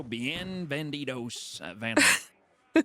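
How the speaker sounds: slow, drawn-out Spanish greeting; hammy Spanish accent. Acted. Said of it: "not sure that's quite how it's pronounced".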